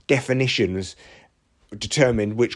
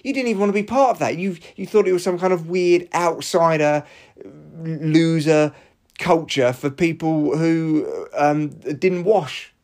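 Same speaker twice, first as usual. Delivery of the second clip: indignant retort; 5 semitones higher than usual. Retold or imitated. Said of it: "I've actually messaged him and I went".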